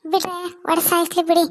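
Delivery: loud, high furious yell; furious shout. Acted. Wife screams at drunk husband in fury. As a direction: scream it at him, losing control. Wife's quarrel peaks.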